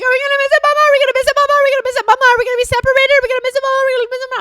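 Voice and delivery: imitating her son asking again and again; anxious little boy. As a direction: whine it like a scared kid. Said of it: "Story's like".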